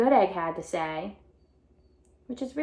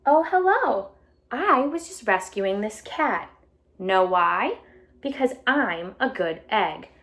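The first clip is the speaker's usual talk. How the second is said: bright storybook read-aloud voice; animated picture book reading; reading to children; slower than usual. A narrator's reading. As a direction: read it out to a class of kids. Teacher reads picture book aloud.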